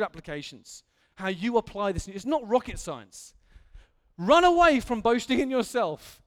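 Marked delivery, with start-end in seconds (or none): 4.2-6.2 louder, ringing command; Paul's command, preached out; loud exhortation. Acted. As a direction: charge them to run. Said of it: "he's saying".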